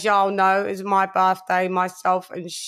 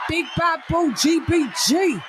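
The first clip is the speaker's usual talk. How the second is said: hype shout-out; 6 semitones higher than usual. Real, not acted. Hyped roll call shout.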